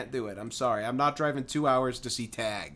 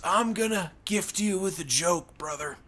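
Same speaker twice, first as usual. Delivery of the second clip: lightly voiced redneck making an offer; a hint of wrestler, leaning in to confide; Hulk Hogan; 2 semitones higher than usual. Redneck close up to a worker, light Hogan-style voice. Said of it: "sounds like his voice is like Hulk Hogan".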